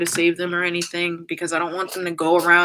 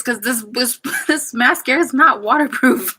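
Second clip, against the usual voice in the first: laughing through tears; 5 semitones higher, 6 dB louder than usual. Real, not acted. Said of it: "ignore my face".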